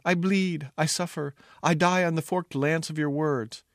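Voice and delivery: mock dying agony. Fool feigns bleeding from the princess's words, melodramatic. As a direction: stagger through a fake death speech. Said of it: "I gasped. I staggered to the chair".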